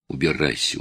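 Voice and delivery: a son holding back sobs; choked sob. A narrator's reading. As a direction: swallow the word in tears. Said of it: "Слова его потонули в рыданиях".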